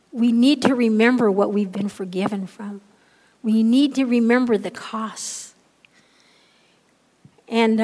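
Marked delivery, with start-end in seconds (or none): 0.1-5.5 loud, driving exhortation; full-force preaching. Acted. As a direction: preach it to the back row.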